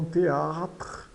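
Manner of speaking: "théâtre" with a lengthened A; prolonged A. Shown as a demonstration. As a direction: stretch the second vowel of "théâtre". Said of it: "tem um som um pouco mais prolongado".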